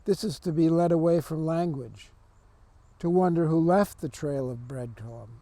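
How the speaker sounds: deliberate poem recital with pauses between phrases; poetry reading. Acted. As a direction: read the verse out in measured phrases. Reads second poem aloud.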